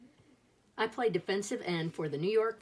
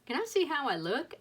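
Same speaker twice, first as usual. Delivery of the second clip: put-on higher, eager little-boy question; anxious question; 7 semitones higher than usual. A narrator's reading. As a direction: ask like a worried kid. Boy anxious asking sisters.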